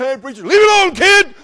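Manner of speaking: high, loud mock kid voices; teasing kids. Kindergarten kids teasing the fuming preacher, high and loud. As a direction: sing it out like cheeky children.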